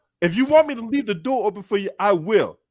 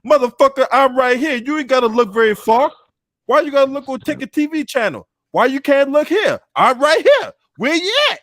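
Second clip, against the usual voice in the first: angry callout; 4 semitones higher than usual. Acted. Calling out a rival on stream.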